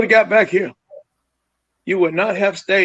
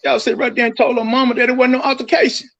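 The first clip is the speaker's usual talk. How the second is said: raised, pitched-up accusing voice, hammering y'all; angry accusation; 6 semitones higher than usual. Real, not acted. Father accusing the families of lying, angry and raised. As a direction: call them out to their faces.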